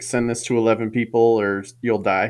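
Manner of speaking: usual speaking voice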